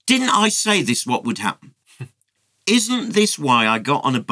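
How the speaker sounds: lightly acted indignant whine; complaining. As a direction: grumble at God like a wronged prophet. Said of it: "So he complained".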